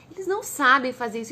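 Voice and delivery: ordinary talk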